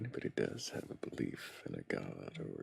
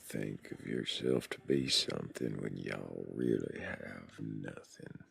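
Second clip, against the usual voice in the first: put-on southern accent; 2 semitones lower, 3 dB louder than usual. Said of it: "debonair a southern accent".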